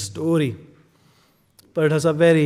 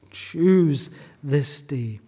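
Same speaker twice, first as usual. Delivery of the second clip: slow repeated charge; much slower than usual. Acted.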